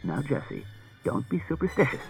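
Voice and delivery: soft coaxing, effortfully patient; soothing. A narrator's reading. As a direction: try to calm a frightened wife. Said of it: "in as soothing a tone as he could manage".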